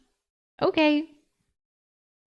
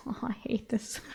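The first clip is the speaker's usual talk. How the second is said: whispered through real laughter; laughing whisper; 12 dB quieter than usual. Real, not acted. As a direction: giggle it out under your breath. Reader breaks up laughing.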